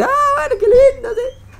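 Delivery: very high, squeaky, delighted falsetto; eager convert's voice. Retold or imitated. Convert answering Hillel in a squeaky high delighted voice. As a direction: squeal it like a naive convert thrilled to begin. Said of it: "le dice".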